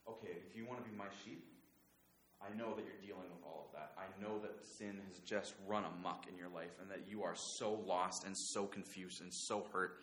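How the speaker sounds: softly voiced, understanding words; gentle reassurance. Jesus reassuring his troubled sheep, gently. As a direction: speak softly to someone lost and hurting.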